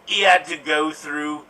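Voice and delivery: lightly put-on rough British accent; Gary Oldman accent. Introducing himself as a character in an improv monologue, put-on British accent. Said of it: "why I'm doing this accent".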